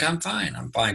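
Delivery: put-on hushing a crying baby, lightly high and soft; soothing baby. Father soothing his crying daughter, high soft hush. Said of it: "I'm like".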